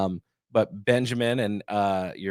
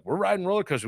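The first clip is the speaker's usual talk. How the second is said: put-on eager kid; 9 semitones higher, faster than usual. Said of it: "he's like".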